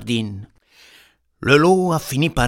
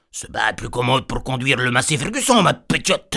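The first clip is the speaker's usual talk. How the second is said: wolf posing as granny. Acted. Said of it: "qu'il lui a dit".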